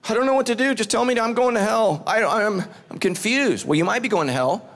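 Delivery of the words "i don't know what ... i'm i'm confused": higher-pitched, lightly mocked bewilderment; confused churchgoer. Uncomfortable churchgoer unsure about laughing in church, lightly mock-confused. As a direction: stammer as a mildly flustered listener. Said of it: "you don't know what to do".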